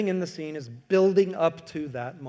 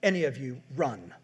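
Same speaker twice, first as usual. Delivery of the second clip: grave Gandalf warning; 2 semitones lower than usual. Retold or imitated. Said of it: "Gandalf goes".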